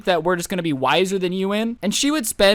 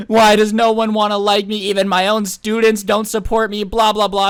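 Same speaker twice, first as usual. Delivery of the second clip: mock bawling; 4 semitones higher, 5 dB louder than usual. Teacher bawling, retold.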